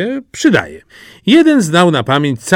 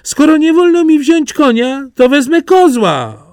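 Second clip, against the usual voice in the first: put-on high, eager country-boy voice; a naive lad dead set on a bride; eager simpleton Jaś; 4 dB louder than usual. Jaś answers his father.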